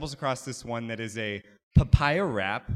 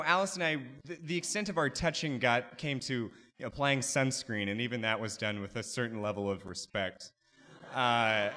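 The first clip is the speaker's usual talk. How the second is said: ordinary talk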